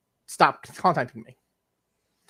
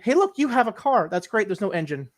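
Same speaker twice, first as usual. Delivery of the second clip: higher, sarcastic salesman cheer; mock the useless fix with fake delight; mock cheerful; 5 semitones higher than usual. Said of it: "That's like saying".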